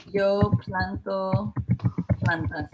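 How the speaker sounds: slow, careful Spanish example; slow teacher demo; slow model sentence. Shown as a demonstration. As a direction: spell it out slowly for the class. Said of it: "if I say".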